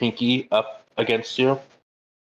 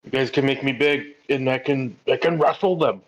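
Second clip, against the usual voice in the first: higher-pitched, eager burst; acting out an excited character; really excited; 4 semitones higher than usual. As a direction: get carried away with a big idea. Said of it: "Jasper gets really excited".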